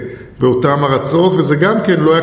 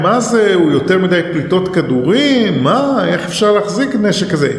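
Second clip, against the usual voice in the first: higher-pitched indignant questioning; mock complaining; 3 semitones higher than usual. Users grumbling about the Uzi's misfires, imitated complaint. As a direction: imitate people grumbling in disbelief. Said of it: "ואז התחילו להתלונן".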